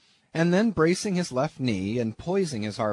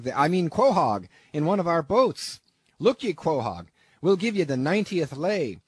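much higher and louder, eager shouting; excited shout; 5 semitones higher, 5 dB louder than usual. Acted. Peleg shouting at Bildad to fetch the papers, loud and eager. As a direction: yell to grab the papers before he changes his mind. Captain hurrying to sign harpooneer.

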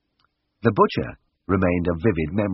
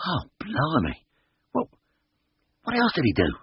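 horrified; 9 semitones higher than usual. A narrator's reading. Simpkin horrified by tray.

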